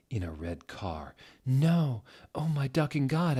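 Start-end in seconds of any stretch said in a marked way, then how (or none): 1.4-3.4 mock scared shout. A narrator's reading. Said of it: "I shouted in a scared voice".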